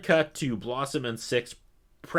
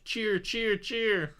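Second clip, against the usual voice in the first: high, soft sing-song chant; mock cue card prompt; 11 semitones higher, 4 dB quieter, much slower than usual. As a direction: coax the crowd in a high voice.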